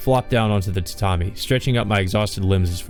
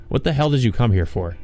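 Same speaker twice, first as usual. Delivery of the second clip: grouchy; 3 semitones higher than usual. Acted. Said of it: "My tone comes out grouchy".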